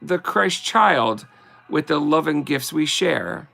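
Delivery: slow, sing-song verse reading; slow Christmas card recital; poem reading. Acted. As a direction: read it like a greeting card poem, unhurried. Reads Christmas poem aloud.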